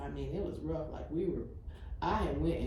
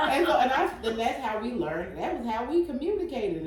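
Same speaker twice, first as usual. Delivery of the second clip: still laughing; 7 semitones higher, 5 dB louder than usual. Real, not acted. Still laughing after the story.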